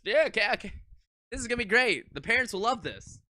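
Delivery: mock school staff. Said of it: "they just decided".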